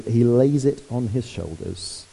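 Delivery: slow, gentle reading of the line; tenderly. Shown as a demonstration. Preacher savouring the shepherd's tender moment, slowly.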